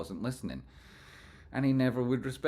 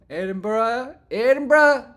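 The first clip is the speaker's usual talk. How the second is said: higher, much louder city cheer; excited cheer; 14 dB louder, slower than usual. Real, not acted. Streamer cheering a viewer's hometown, loud and excited. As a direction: belt out the city name.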